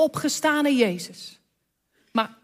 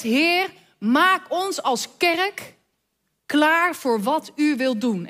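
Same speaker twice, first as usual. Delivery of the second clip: gebed; 2 semitones higher, slower than usual. Retold or imitated. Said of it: "En is ons gebed".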